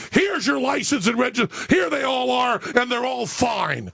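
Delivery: mock exasperation, drawing out the last line; exasperated. Cop reaching into the car to find the papers, exasperated. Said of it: "kind of laughing and exasperated".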